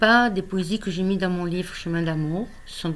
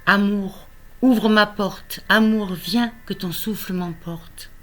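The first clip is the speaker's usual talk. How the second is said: measured poem reading with pauses between phrases; poetry recital; 3 semitones higher, 5 dB louder than usual. Acted. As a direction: recite a love poem line by line. Reads own love poem aloud. (lecture de poème, posée)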